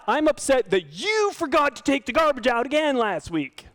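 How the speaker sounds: blaming complaint. Shown as a demonstration. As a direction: make it personal and accusing. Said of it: "So it's not".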